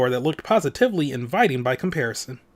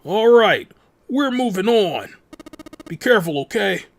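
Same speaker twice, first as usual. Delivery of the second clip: calling out; 6 semitones higher, 4 dB louder than usual. Acted. Friends parting through a closed door, calling out. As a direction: call through the door to the others.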